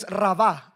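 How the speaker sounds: "rabá" stressed on the final á; stress on second syllable. Shown as a demonstration. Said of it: "con acento en la segunda".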